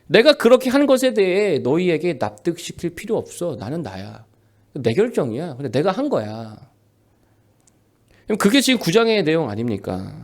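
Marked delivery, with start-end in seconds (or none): 0.1-6.6 voice of God. Acted. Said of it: "이때 하나님 뭐라고 하신다고요?".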